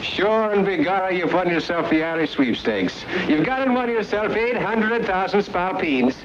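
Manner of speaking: high, hearty stage-Irish official; stage Irish announcer. Pretend. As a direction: put on a jolly Irish brogue. Fake sweepstakes official phones Topper.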